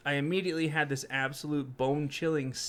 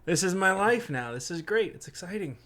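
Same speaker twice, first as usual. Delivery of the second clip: mock enthusiasm; 4 semitones higher than usual.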